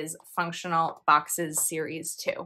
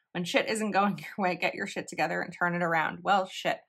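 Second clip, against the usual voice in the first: laughing; faster than usual. Real, not acted. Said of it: "I can't stop laughing".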